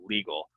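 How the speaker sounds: "legal" said LEE-gul; long E. Shown as a demonstration. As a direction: clear ee in "legal". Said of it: "it's an E".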